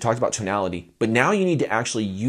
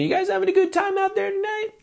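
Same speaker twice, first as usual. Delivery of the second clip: high, bright stage call; singer greeting the crowd. Shown as a demonstration. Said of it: "a lot of singers will say is like".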